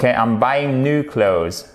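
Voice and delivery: slow model sentence, "clothes" without TH; American English pronunciation. Shown as a demonstration. Teacher repeating the full example for learners, slow American English. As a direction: say it slowly, "new" as "noo", "clothes" ending in Z. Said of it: "notamment en American English".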